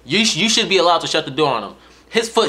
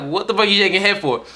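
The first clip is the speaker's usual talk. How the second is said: higher-pitched retold disbelief; mock incredulous demand; 6 semitones higher, faster than usual. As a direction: ask it like you can't believe him. Retold incredulous question to his brother.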